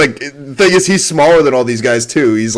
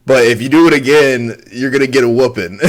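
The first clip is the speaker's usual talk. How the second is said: stern Southern mom. Retold or imitated. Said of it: "he reminds me of kinda how my mom was".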